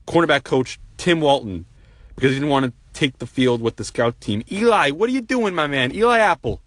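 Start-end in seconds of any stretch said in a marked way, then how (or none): 4.5-6.6 exasperated. Real, not acted. Exasperated plea to the player.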